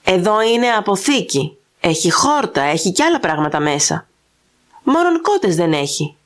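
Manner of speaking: a biting, scornful jibe; understated harsh sarcasm. Acted. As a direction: sneer the last words at him. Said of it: "με τα σκληρού σαρκασμού".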